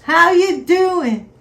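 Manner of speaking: slow Long Island how you doin; long island accent. Shown as a demonstration. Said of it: "you gotta repeat my words".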